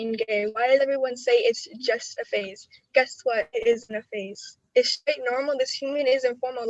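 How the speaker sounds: measured poetry-slam recitation; spoken word poem. Acted. Ninth grader reciting her coming-out poem to the audience, spoken word delivery. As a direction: deliver each line like a performed poem.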